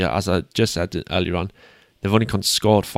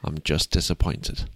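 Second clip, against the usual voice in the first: disappointed dad; 4 semitones lower, 3 dB quieter than usual. Pretend. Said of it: "that hurts extra hard".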